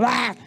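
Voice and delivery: a quick imitated shriek of a toddler; mock child scream. Therapist imitating a screaming toddler, light mock shriek. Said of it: "Y gritaba todo el tiempo".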